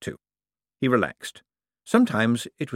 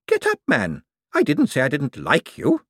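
put-on high, brisk elderly order; feisty old lady; 6 semitones higher, 3 dB louder than usual. Old lady orders the fallen visitor up, feisty and high.

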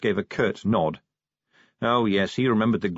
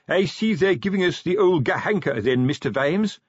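nervous cheerfulness; 7 semitones higher than usual. Acted. The sergeant greets his commander, mildly higher with nervous cheer. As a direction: put on a brave grin over the nerves. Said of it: "with nervous cheerfulness".

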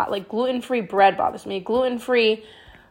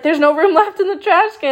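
laughing; 7 semitones higher, 4 dB louder than usual. Real, not acted. Laughing at full trash can.

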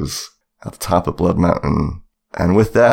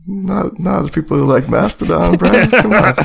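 exasperated protest; 11 semitones higher than usual. Real, not acted. Playful protest at Twilight joke.

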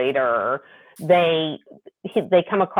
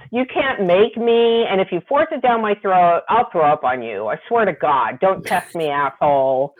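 retold defiant complaining; 2 semitones higher than usual. Heroine refusing the alien's food, mock-defiant complaint. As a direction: play up her stubborn refusal, lightly. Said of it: "she's complaining the whole time".

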